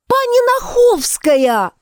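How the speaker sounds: high drawn-out yell. Acted. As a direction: shout the name out long. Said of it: "опять заорала Яночка".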